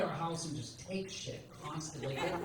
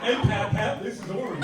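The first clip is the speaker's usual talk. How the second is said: mock dopey grandkid, higher and louder; 4 semitones higher, 6 dB louder than usual. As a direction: play a silly little kid calling his grandpa. Imagined grandson eating crayons.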